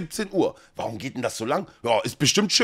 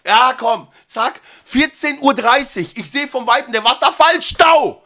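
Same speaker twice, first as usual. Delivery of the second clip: rushing tour guide; 7 semitones higher, 4 dB louder than usual. Acted.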